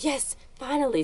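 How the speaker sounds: high-pitched burst of delight, a bit soft; excited squeal. Retold or imitated. Best friend bursting through the door, thrilled she'll go to the dance, high excited squeal. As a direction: squeal it like the wait is finally over.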